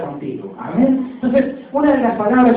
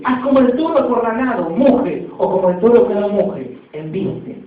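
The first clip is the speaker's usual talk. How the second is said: louder, forceful poem recitation of "muge" and "embiste"; loud declaiming; 5 dB louder than usual. Shown as a demonstration. Preacher reciting the poem's climax to the church, loud declamation. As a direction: boom out the closing lines like a rallying cry. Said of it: "haz la parte final donde dice".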